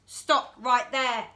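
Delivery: put-on boy guarding his house, stern halt; firm stop. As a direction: halt them at the door. George halts the twins.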